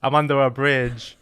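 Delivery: a hint of a 1920s reporter; mock old newsreel announcer; old-timey voice. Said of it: "your old-timey voice".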